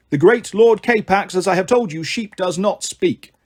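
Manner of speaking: slow, solemn intoning; stately, drawn-out goat proclamation; intoned. A narrator's reading. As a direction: intone it like a grand pronouncement. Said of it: "intoned Goatee McGoatface".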